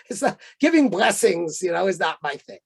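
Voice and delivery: lightly imitated arch demurral; mock-reluctant refusal, easing down. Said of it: "looked at me in this kind of arch way".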